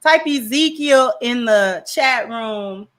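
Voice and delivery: emphatic announcer-style thanks; membership shout-out. Acted. Streamer asking chat to applaud a membership gifter, shout-out voice. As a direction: call for applause like a stream host.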